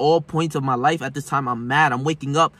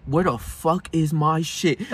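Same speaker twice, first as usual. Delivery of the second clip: incredulous; much slower than usual. Retold or imitated. Confused, angry at the empty shelf.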